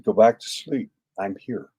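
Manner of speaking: soft, settling bedside tone; retold gentle reassurance. Soothing a frightened sleeper at night.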